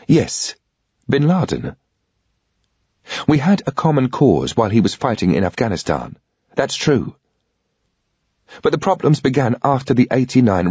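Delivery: "bin Laden" given as a steady, matter-of-fact confirmation; lightly voiced woman laying out the facts; a hint of a composed female briefer; she calmly explains.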